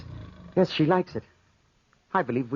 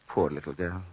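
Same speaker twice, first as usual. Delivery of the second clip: mock pity; 7 semitones lower than usual. Mocking pity for her.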